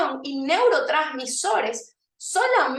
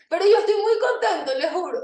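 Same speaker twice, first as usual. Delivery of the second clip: laughing; 7 semitones higher, 4 dB louder, faster than usual. Real, not acted. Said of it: "ni siquiera me sale la voz bien".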